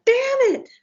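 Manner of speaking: high, exaggerated grumbling damn it; comic frustrated curse; mock exasperation. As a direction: act out annoyed reluctance. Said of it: "And I'd be like".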